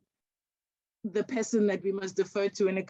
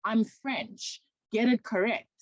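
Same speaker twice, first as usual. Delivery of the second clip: lightly voiced academic correcting a student, firm and higher; "my name's Achille, not Achille" said with a clipped higher firmness; a touch of a stern correction; 3 semitones higher than usual. Professor corrects eager student, firmly. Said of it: "corrects me to say".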